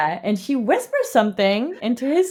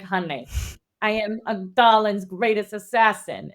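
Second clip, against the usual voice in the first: lightly put-on Italian voice. Heroine reassuring the worried prince, slight Italian voice. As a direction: boast with a hint of Italian. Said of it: "in her Italian voice".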